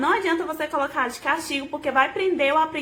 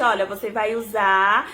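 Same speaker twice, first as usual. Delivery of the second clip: slow, lower teaching voice; measured, syllable-paced; 4 semitones lower, slower than usual. Shown as a demonstration. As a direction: spell it out slowly for a child. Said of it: "falando pra ela compassadamente".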